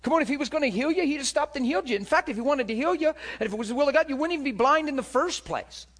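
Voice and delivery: high, loud, dismissive scolding; hushing crowd. Retold or imitated. Crowd hushing blind Bartimaeus, scoffing. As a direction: scoff at the blind man to shut him up. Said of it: "everybody tries to hush him and tell him".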